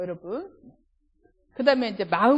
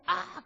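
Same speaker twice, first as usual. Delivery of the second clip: pain cry; 8 semitones higher, 4 dB quieter than usual. Retold or imitated. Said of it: "저도 모르게".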